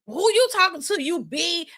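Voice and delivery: mimicking the sister. Complaining about kids copying their mothers, high sassy mimic. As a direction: imitate the little boy copying his big sister's sass. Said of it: "he talked just like her".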